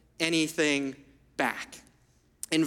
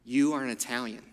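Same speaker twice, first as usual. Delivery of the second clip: grandpa voice; 5 semitones lower than usual. Retold or imitated. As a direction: lean in low like a doting grandfather. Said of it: "and he would say".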